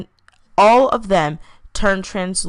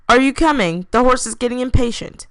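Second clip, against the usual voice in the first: yelled from below; 6 semitones higher than usual. Acted. Young Turner yells up to Graham from outside, calling. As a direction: call up fifty feet to hurry him. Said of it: "Turner yelled from outside".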